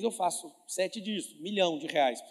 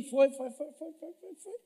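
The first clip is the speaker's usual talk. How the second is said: rising fading repetition; 9 semitones higher, slower than usual. Retold or imitated.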